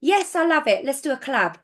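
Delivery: a light, keen take on how Dan talks; imitating Dan. Dan replying eagerly to her business pitch, lightly imitated. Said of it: "this is how he talks".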